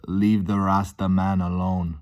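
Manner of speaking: slow, lightly imitated Jamaican accent; attempted Jamaican accent. Imitating a song heard playing, attempted Jamaican accent. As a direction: have a tentative go at a Jamaican accent. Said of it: "I'm gonna try doing a Jamaican accent".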